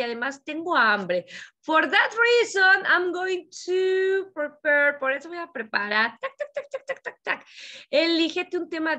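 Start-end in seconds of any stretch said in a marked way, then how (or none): 1.6-5.0 slow, high, deliberate English; slow model sentence. Shown as a demonstration. Teacher models a voice diary line, slow and high. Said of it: "grábate en tu celular". 6.2-7.5 tac tac sounds. Shown as a demonstration. Imitating typing or chopping.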